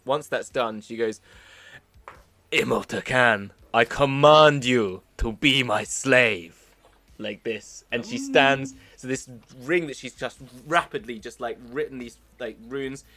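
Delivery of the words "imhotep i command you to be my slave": commanding summoner. Acted. Character commands summoned creature.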